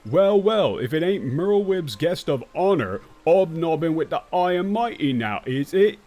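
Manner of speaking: reading game dialogue in a mock Brit voice; fake British accent. Shown as a demonstration. Streamer reading game lines in a caricature British accent. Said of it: "they talk like what Americans who don't know British accents think British people speak like".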